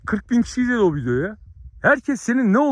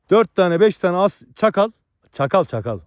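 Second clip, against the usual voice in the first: ordinary talk, nothing marked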